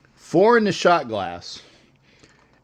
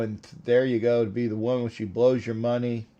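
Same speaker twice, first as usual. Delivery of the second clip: whisper; 6 semitones lower, 9 dB quieter, faster than usual. Real, not acted. Joking aside, unvoiced.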